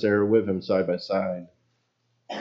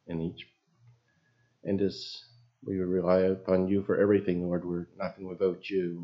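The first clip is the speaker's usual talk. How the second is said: prayer. Acted. Pastor opening the service, leading the church in prayer, humbly. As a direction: speak to God humbly, unhurried.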